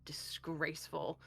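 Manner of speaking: put-on a menacing father in a mild British accent. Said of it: "in a British accent".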